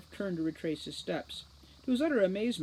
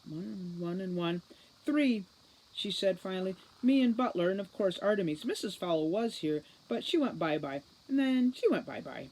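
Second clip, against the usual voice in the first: put-on dreamy, childlike; 2 semitones higher than usual. Mesmerized Juliet counts people.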